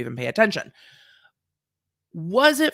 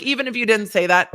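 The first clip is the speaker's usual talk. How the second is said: louder, higher mock judge; voicing the court; 5 semitones higher, 5 dB louder than usual. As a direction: play an insistent court, raised voice. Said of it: "The court's like".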